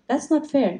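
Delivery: high-pitched imitation of a pondering child; thoughtful child. Eight-year-old objecting to the buyers' offer, thoughtful. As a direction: lightly voice a small boy thinking it over. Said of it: "very thoughtfully".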